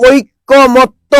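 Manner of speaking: ঐকমত্য with a doubled k, as oik-ko-mot-to; common mispronunciation. Shown as a demonstration. Teacher quizzing students on the word, slow mistaken ঐকমত্য with doubled k. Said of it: "নিজেরাই ভুল করি".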